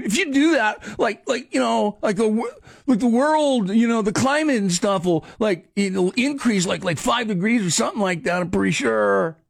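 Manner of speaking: mock self-styled expert, stumbling over filler words; lightly voiced unsure know-it-all, halting and repeating; clueless online responder. Host mimics the guy responding to Elon Musk, mock clueless expert. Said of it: "Was that your Elon Musk voice?".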